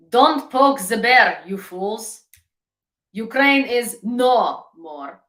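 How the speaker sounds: slow, loud, menacing mock troll; slow mock-menacing bot voice taunting the stream; mock Russian bot voice. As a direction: ham up a grim Russian commenter. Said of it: "I imagine they write it like this".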